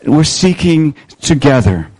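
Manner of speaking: "seeking together" set out word by word; weight "seeking" and "together", with small gaps between; emphasis on key words. Shown as a demonstration. Pastor highlighting the church's statement, stressing "seeking together". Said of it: "Let me just emphasize some of those words".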